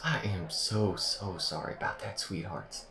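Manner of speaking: soft, sinking sincere apology; soothing and sorry; tender apology. Acted. AI apologises for shooting at them.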